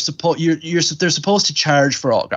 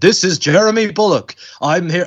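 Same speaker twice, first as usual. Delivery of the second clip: higher, announcing to the camera; proud little presenter's announcement, pitched up; imitating excited child; 5 semitones higher than usual. Nine-year-old recording a film actor at a convention, excited announcement.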